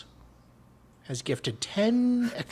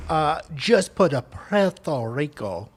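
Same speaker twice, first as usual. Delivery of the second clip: mock Spanish accent; 3 dB louder than usual. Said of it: "You like my, uh, Spanish accent?".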